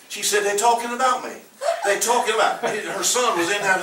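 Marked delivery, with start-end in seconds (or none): 0.4-2.6 tearful mother. Retold or imitated. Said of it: "Then she started crying".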